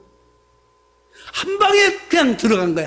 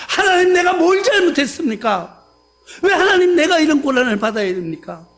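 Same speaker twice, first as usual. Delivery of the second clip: higher, louder crying lament to God; tearful plea; 4 semitones higher, 4 dB louder than usual. Retold or imitated. Believer cries out to God in hardship, tearful. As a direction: wail it out as a suffering believer. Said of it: "그렇게 말해요".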